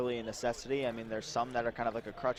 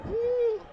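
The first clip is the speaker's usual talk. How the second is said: yawn; 8 dB louder than usual. Real, not acted. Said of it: "I don't know why I'm yawning".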